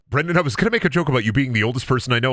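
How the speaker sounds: fast rattled-off retake of Brendan, I was gonna make a joke; rushed repeat. Shown as a demonstration. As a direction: rush through the line again quickly. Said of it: "repeats line faster".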